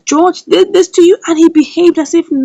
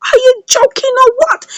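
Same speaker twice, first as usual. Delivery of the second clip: mocking laugh; 11 semitones higher than usual. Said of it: "She now began to laugh".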